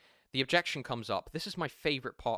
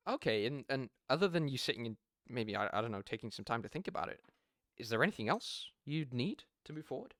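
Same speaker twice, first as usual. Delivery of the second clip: confused tone. Shown as a demonstration. Salesman gently mocking the client's objection, puzzled and unhurried. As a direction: take your time, sound baffled by the excuse. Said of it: "Confused tone. Taking my time".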